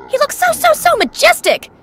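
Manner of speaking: high, excited admiration; awed gushing. Real, not acted. Fan admiring Ultra T V Man, awed gushing. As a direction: gush with the pitch way up. Gushing over a new character.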